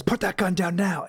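lightly imitated dad command, each word firm; a hint of stern parental order. Quoting Mac's order to show his dad voice. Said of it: "he does kind of back off that voice a little bit".

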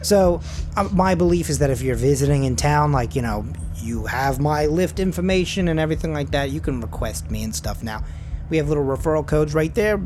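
lightly voiced talkative rideshare driver; chatty driver. The driver pitching his referral code to Garth, lightly voiced and chatty. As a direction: ramble helpfully with lots of stops and starts.

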